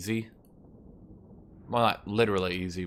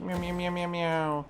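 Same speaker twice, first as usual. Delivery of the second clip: high, softer string of mock meows; imitating cat meows; 8 semitones higher, 4 dB quieter than usual. Teasing the cat, a high soft meowing. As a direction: mew it back softly and high like the cat. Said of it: "she says".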